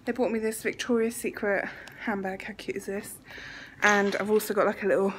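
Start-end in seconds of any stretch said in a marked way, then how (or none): 2.4-3.2 whispering. Real, not acted.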